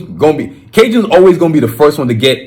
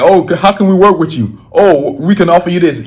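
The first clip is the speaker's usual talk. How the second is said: lightly mocked suitor voice, pitched higher; higher-pitched mock business pitch; imagined eager companies; 4 semitones higher than usual. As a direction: imitate companies courting you, voice lifted. Imagined companies courting him with offers.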